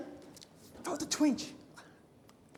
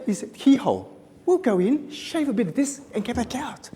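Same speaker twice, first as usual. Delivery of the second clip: clipped, punchy ninja-style surgeon voice, higher and louder; mock ninja surgeon; 5 semitones higher, 4 dB louder than usual. Surgeon explaining keyhole surgery, hammed-up ninja voice. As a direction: play the surgeon like a movie ninja. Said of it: "He sounded like a Japanese ninja".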